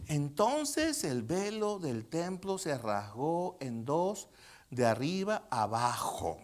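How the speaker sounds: slow, measured Bible reading; solemn scripture reading. Real, not acted. Preacher reading the temple veil passage to congregation, slow and measured. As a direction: read it out slowly, phrase by phrase.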